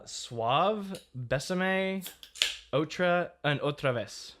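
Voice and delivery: reading Spanish words aloud in an accent; Spanish pronunciation. Shown as a demonstration. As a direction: sound out the Spanish label carefully. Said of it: "read that word and those subsequent words".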